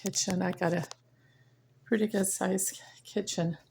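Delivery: winded, catching breath between words. Real, not acted. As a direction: talk while still out of breath. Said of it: "Boy, I'm out of breath now".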